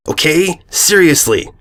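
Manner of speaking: a mild hint of drill sergeant; barking orders. A narrator's reading. Rainbow to Sweetie, a mild commanding bark. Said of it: "like a commander barking out orders".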